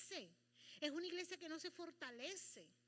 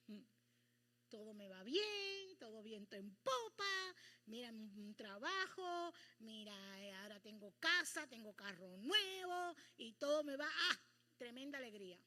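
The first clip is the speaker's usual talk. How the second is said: smug boasting; 2 semitones lower, 6 dB louder than usual. Pretend. Believer who no longer needs God, smugly boasting. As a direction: savour every possession as you list it.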